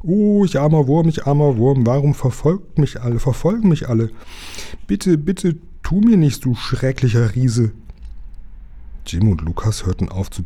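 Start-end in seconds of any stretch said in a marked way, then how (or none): 0.0-7.7 high, wailing creature begging for mercy; squealing piglet voice. A narrator's reading. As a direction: whine and plead like a frightened piglet. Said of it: "quiekte eine ganz sonderbare Ferkelstimme". (jammernde, hohe Ferkelstimme)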